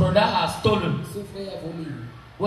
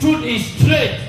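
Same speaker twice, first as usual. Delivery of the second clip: truth is straight, called out louder and slower; proclaimed to all; 4 semitones higher, 3 dB louder than usual. Shown as a demonstration. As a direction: proclaim it for everyone to hear. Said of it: "Tell them all".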